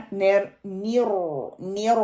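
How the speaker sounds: نیر without doubled r; weak shadda. Shown as a demonstration. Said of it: "شد کو مضبوط نہ پڑھنا". (کمزور شد)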